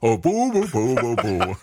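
boo yourself playfully, pitch up; hammed-up self-booing that breaks into a laugh; mock booing. Mock-booing himself while she edits.

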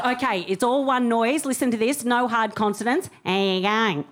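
lightly demonstrated Aussie accent, words run together; Australian accent. Shown as a demonstration. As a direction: run it all as one noise in a mild Australian accent. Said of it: "All one sound".

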